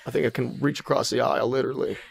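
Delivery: lightly voiced sly Southern Clinton; Bill Clinton as a trickster. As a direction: cajole the Arby's cashier like a smooth dealmaker. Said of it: "trickster, Southern Fox".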